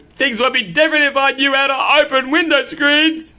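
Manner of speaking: high scheming cat voice. Acted. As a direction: plot aloud like a hungry cat. Cat voice again.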